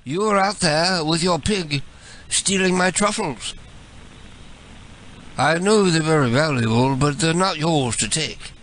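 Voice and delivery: put-on British landowner accusing a thief; lightly indignant British caller; mock British accent, measured accusation. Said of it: "switch to my British voice".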